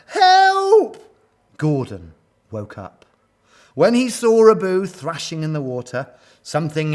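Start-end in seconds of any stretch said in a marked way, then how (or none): 0.1-1.0 loud, high wail for help; long, drawn-out distress cry. A narrator's reading. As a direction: wail like a desperate mother. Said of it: "wailed Abu's mother".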